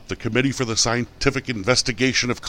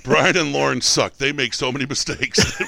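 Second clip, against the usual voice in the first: mock critic voice; 2 semitones higher than usual. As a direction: sneer it like a hater. Mocking listener complaint.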